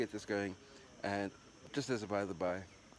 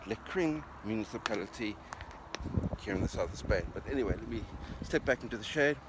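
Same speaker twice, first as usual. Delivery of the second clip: raised voice over gusting wind; shouting over wind. Real, not acted. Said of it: "Terribly sorry about the wind noise".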